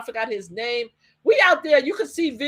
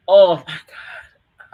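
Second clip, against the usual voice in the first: stunned; 4 semitones lower, 9 dB louder, much slower than usual. Retold or imitated. Hearing the verdict read out.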